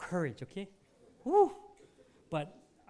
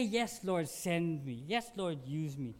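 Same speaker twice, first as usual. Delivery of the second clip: earnest prayer; slower than usual. Shown as a demonstration. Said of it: "To say".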